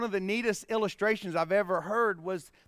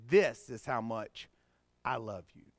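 tender declaration; 10 semitones lower than usual. Acted. Preacher voices Jesus telling believers of his love, tenderly.

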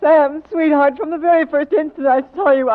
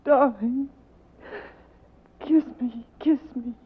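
softer, hushed plea for a kiss; soft seduction; 7 dB quieter, slower than usual. Acted. Woman begging the detective for a kiss, soft. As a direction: lure him in softly.

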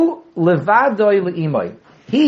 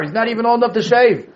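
chuckling through the joke; laughing tease; 5 semitones higher than usual. Real, not acted. Teasing a young student.

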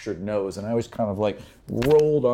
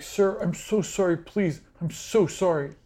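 high, pleading apology; begging servant; 9 semitones higher than usual. Acted. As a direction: whimper it out, cowering. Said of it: "And he's like".

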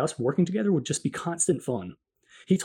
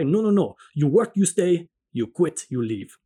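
sharp, louder retort in an imitated Italian accent; 4 dB louder than usual. Manager refusing the busboy's offer to stay, sharp Italian accent. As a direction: cut him off sharply in a thick Italian accent. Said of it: "met again with the sharp reply".

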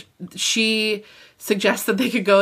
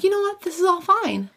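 mock casual; 11 semitones higher than usual. Quoting Steven talking himself down.

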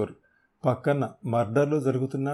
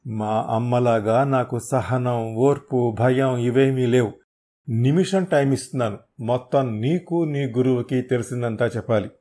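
menacing threat; 4 dB louder than usual. Acted. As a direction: lay out the threat coldly. Hero threatens with petrol.

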